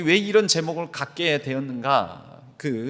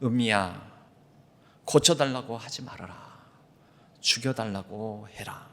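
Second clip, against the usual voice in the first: lower, softer, gentle voice within; inner voice of God; 4 semitones lower, 4 dB quieter than usual. Retold or imitated. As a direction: speak it quietly, like a voice from within. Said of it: "한 소리가 내 심령에서부터 들려왔습니다".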